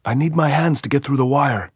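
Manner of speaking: high, loud answer across the wire; shouting. A narrator's reading. Andres answering the sentry's challenge, shouting. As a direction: yell it up so they hear. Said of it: "he shouted".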